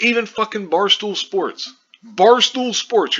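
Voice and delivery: high and loud, dragging out Barstool Sports slowly; can't believe even they did it, voice climbing and stretching; incredulous outrage. Real, not acted. Vlogger mocking a sports site's headline, high, loud and slow in disbelief. Ranting at misleading news headlines.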